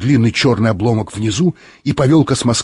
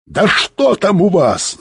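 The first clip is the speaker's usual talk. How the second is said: higher, drawn-out demand; mild yell; 8 semitones higher, slower than usual. A narrator's reading. Bykov demands to know what is happening, mildly yelling. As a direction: yell it with restraint, pitched up. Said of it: "заорал Быков".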